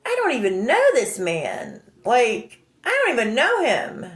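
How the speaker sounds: indignant, pitch swooping up on know; incredulous inner protest, acted out; retold disbelief. Thinking about the rude man, indignant disbelief. Acting out her shocked thought.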